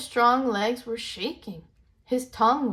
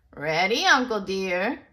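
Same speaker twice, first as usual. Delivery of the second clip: louder, firm answer; shouted reply; 5 dB louder than usual. Acted. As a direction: stand tall and answer back. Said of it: "shouted Sapo".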